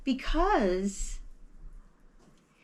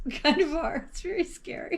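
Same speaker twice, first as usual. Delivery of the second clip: laughing; 9 semitones higher than usual. Real, not acted. Laughing agreement.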